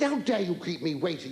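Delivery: livid caller. Acted. Director scolding comic for keeping him waiting, livid. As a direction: play an affronted, livid man on the phone. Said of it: "He said, he was livid".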